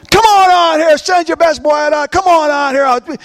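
high-pitched giant's challenge; taunting. Acted. Giant warrior to the Israelite army, taunting. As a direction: call them out with a mocking dare. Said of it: "he's taunting them".

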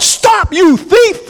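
high, piercing yell at the thief. Pretend. Preacher urging the congregation to yell at the devil, piercing yell. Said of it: "you haven't yelled".

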